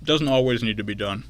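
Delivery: talking with mouth full; chewing a snack while talking; chewing noisily. Real, not acted. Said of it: "I'm sorry I'm eating on the air".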